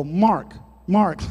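barking the name with a lisp; a dog's bark said as a word, lisped. Retold or imitated. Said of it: "what a dog sounds like when it barks and it has a lisp".

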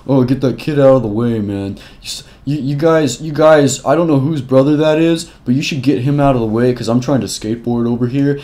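lightly voiced careless adult brushing it off; mock dismissive bystander. Narrator mocking adults who ignored the bullying, mildly dismissive. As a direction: imitate an annoyed skater shooing the kid away.

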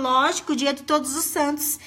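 a hint of the husband, sure of himself, with the stress on "Todos" in "dia de Todos os Santos"; lightly voiced husband spelling out the joke; husband's smug answer. Husband explaining that "Todos os Santos" is his day, lightly smug. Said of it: "Ele falou".

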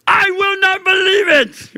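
high, strained mock disbelief; hammed-up high refusal; mock doubter's cry. Preacher voicing a doubter.

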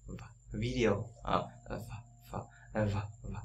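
v- held with voiced lip buzz; repeated V drill. Shown as a demonstration. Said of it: "âm V này đọc cũng giống như là âm F".

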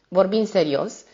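serios weighted and held, with meaning; insisting on serios. A narrator's reading. Notary to the viscount, pointed insistence. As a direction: press on the word serios. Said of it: "și stărui asupra acestui cuvânt".

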